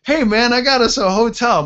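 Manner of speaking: like you just found a diamond; beaming excitement. Retold or imitated. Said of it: "I'm smiling, like, ear to ear".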